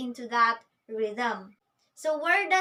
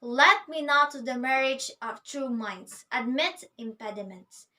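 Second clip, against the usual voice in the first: purposeful declaration. Retold or imitated. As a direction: announce it like someone entering a room. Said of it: "coming into the room saying".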